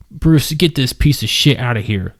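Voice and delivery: a hint of a Jamaican accent, snapped out; lightly voiced Jamaican man snapping an order. A narrator's reading. Luis orders the bouncer Bruce out, light Jamaican snap. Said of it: "Luis snapped in his thick Jamaican accent".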